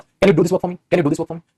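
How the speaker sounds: plain direct question, no softening; a flat demanding ask; blunt straight ask. Shown as a demonstration. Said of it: "सीधा, सीधा पूछ रहे हो".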